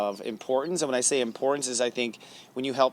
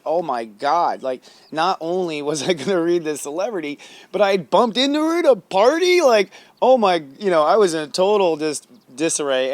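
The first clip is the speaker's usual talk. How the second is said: high, loud retold freak-out; overwhelmed excitement; 5 semitones higher, 6 dB louder than usual. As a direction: relive the starstruck amazement, voice leaping up. Relives meeting celebrity at a party.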